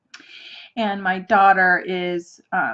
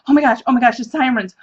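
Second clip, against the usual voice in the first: louder, hurried mock alarm; retold panic; 4 dB louder, faster than usual. Retelling their fear that someone got hurt, mock panic. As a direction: act out a rush of panicked thoughts.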